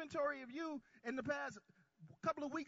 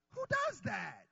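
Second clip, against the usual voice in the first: rising call; 10 semitones higher, 5 dB louder, slower than usual. Acted. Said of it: "Anybody ever wonder that?".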